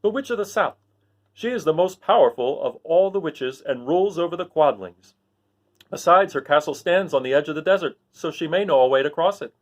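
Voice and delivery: lightly voiced guard; soldier. Soldier telling about Glinda. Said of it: "soldier answers".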